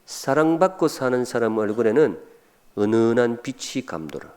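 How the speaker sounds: acted pointed remark, in measured phrases; acted sisterly dig. Younger sister to estranged older sister, pointed dig. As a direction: needle an older sister, pausing before the second half. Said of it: "동생이 언니한테 쏘아붙이는 말".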